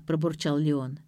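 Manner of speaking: ordinary delivery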